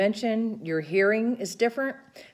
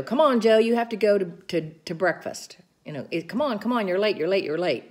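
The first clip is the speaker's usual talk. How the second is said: loud, hurried nagging, then easing off; yelling at Joe; 3 semitones higher, 4 dB louder than usual. Retold or imitated. Caregiver yelling at Joe to hurry to breakfast, loud and nagging. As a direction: nag him loudly to hurry up. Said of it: "yelling at Joe".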